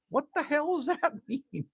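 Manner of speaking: laughing it out in disbelief; a real laugh breaks through the question. Real, not acted. Laughing at a viewer's nickname.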